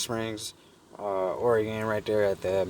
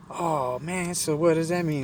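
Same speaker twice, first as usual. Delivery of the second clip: high-pitched, drawn-out mock lady voice; imitated woman; 8 semitones higher, slower than usual. Lady asks about her broken car, in mock high voice. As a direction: mimic a dismayed woman asking, pitched up. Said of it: "And she's like".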